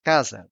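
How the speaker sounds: "Casa" with the first A open, stress on ka; Portuguese word. Shown as a demonstration. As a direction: say "Casa" slowly, KA-sa, open first A, shut final a. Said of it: "The stressed syllable is in ka".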